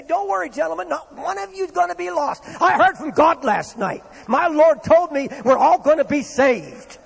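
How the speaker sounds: rally frightened men with bold faith; confident proclamation. Retold or imitated. Apostle Paul reassuring the sailors in the storm, rising loud confidence. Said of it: "and say".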